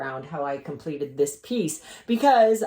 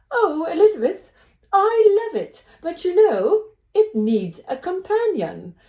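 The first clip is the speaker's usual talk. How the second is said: much higher and louder hammed-up British accent; the speaker's British accent, louder; 12 semitones higher, 5 dB louder than usual. Licensing agent asking for a companion piece, in a gushing bad British accent. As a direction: gush it in an over-the-top British accent. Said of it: "This is my horrible British accent".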